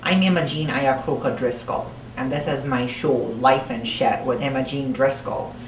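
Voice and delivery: thick put-on New Jersey accent, held all the way. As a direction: talk like a crude New Jersey broad throughout. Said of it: "I don't know where the accent came from".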